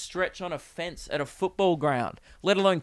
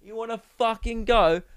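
pitched-up British fight challenge; higher, playful British geezer; put-on British accent; 6 semitones higher than usual. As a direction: square up in a mock British accent. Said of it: "I just like doing the accent".

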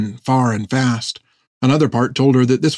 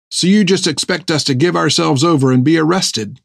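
higher, mildly indignant question; challenging young captain; 5 semitones higher than usual. Acted. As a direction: lightly voice a defiant captain in disbelief. Narrator voices Finn challenging Fred.

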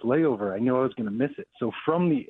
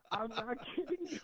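laughing; 12 semitones higher, 9 dB quieter, faster than usual. Real, not acted. Laughing at his own story.

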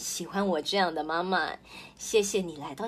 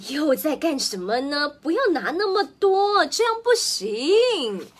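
higher, louder telling-off, last words slow; sharp scolding; 5 semitones higher, 5 dB louder than usual. Acted. Mother catching her child grabbing too much, loud sharp scolding. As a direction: forbid it, firm and cross.

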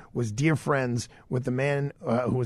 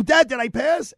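high, loud, urgent question to Dad; excited disbelief; 11 semitones higher, 5 dB louder than usual. Retold or imitated. Son pressing silent father for the exam result, excited disbelief. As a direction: voice shoots up, desperate to hear it confirmed. Retells asking his father again.

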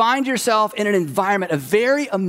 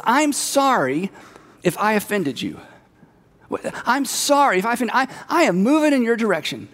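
mock apology; 2 semitones higher than usual. Acting out a fake apology.

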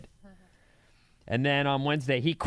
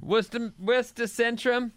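put-on Boston accent on Worcester Centrum; 6 semitones higher than usual. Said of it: "is that your Boston accent".

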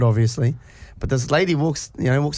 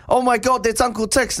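higher, thrilled gasp of recognition; excited kids; 8 semitones higher than usual. Retold or imitated. The schoolkids spotting Uncle Tix, mock thrilled and high. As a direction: squeal like starstruck kids. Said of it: "these kids were like".

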